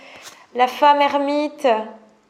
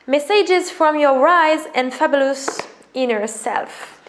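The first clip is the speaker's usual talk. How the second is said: slow reading; slower than usual. Shown as a demonstration. Vlogger reads the deck's English subtitle slowly. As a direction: savour each word of the subtitle. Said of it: "reading card deck subtitle".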